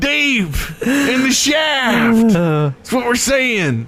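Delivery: high, slow redneck drawl; redneck accent. Acted. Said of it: "talking in this voice".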